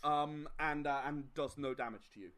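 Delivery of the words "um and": ordinary talk, nothing marked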